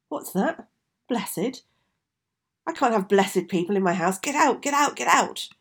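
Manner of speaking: high, loud furious shout; raging witch. Acted. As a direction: throw her out in a rage. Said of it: "jumped up in a huge rage".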